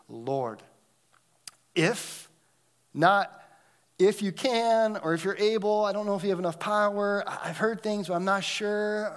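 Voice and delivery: rising, hesitant pleading leper; doubting leper. Acted. Preacher voices doubtful leper.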